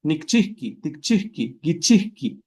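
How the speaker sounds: Nikchihki, tikchihki, gichihki said at normal quick speed, the cut still there; quick run of conjugations. Shown as a demonstration. Teacher says the forms quickly to show the cut remains. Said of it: "Por más rápido que le diga".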